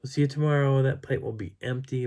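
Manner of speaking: mock chirpy sign-off; acted goodbye. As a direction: toss off a high-pitched goodbye. Acting out her goodbye.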